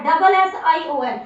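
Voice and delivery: डबल punched loud; stressed spelling. Shown as a demonstration. Teacher stressing double letters to pupils. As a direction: hit डबल hard. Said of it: "यहाँ पर क्या आ रहा है".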